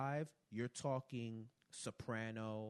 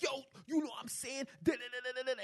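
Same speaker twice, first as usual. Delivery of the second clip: put-on heavy New York accent; 5 dB louder, faster than usual. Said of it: "that is you".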